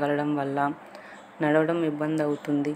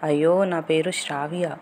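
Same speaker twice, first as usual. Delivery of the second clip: louder, calling across the distance; 4 dB louder than usual. Acted. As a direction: raise your voice so he hears. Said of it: "కొంచెం గట్టిగా చెప్తారా?". (గట్టిగా పిలిచి చెప్పడం)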